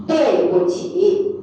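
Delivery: slow phrase, syllable by syllable; drawn-out teaching pronunciation; slow teacher model. Shown as a demonstration. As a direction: model it slowly for a learner.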